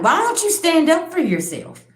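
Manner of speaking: urging her to hit back; retold shocked yell; young self yelling. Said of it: "I'm like".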